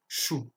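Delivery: "chou" with a French ch, no T; SH sound opening "chou". Shown as a demonstration. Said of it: "se prononce comme le ch".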